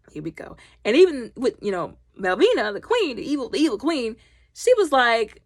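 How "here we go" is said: soft, lower resigned mutter; muttered aside. Retold or imitated. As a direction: roll your eyes and mumble it. Weary aside.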